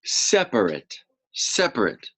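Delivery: teacher modelling a word; model word separate. Shown as a demonstration. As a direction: Separate said as SEP-rit. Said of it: "Can you say that word?".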